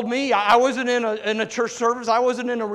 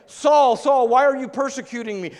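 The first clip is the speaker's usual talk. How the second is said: a loud, higher call of the name; 3 semitones higher, 4 dB louder than usual. Acted. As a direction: call out Saul's name from above. Divine voice calls Saul.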